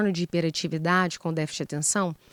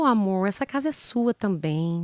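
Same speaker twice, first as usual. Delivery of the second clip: tender request. Retold or imitated. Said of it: "quando ela tem uma fala assertiva".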